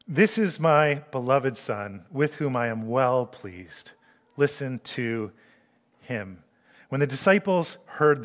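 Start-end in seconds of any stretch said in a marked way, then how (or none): 0.1-6.4 lower, slow and soft divine pronouncement; solemn voice of God. Acted. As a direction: speak it slowly, like a voice from heaven. Voice from the cloud speaks.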